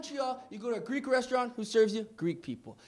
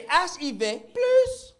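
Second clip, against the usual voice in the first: slow, higher French delivery; French accent; 4 semitones higher, 4 dB louder, slower than usual. Shown as a demonstration. Comic proves anything sounds better in French, slow French accent. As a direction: draw it out in French. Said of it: "Everything sounds better in French".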